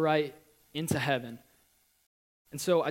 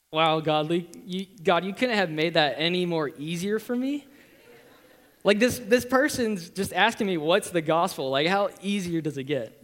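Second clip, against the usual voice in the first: loud, raised-pitch retelling of astonishment; amazed exclamation; 3 semitones higher, 6 dB louder than usual. Retold or imitated. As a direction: exclaim to God as if handed a golden chance. Retold amazed reaction to God.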